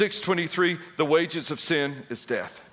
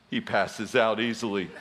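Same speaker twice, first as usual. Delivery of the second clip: sweetly; 9 semitones lower, 3 dB quieter than usual. Retold or imitated. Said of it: "so sweetly".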